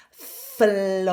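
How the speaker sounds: "Flows" with FL cluster, O-oo and buzzy Z; buzzy Z ending. Shown as a demonstration. Coach models the full word flows. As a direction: end "Flows" in a buzzing Z. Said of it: "followed by a buzzy Z behind your teeth".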